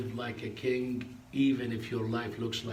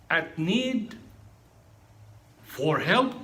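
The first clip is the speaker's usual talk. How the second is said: higher, louder grieving voice; grieving cry; 6 semitones higher, 7 dB louder, much slower than usual. Retold or imitated. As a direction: let the teacher's grief break through. Weeping teacher recalls the parrot.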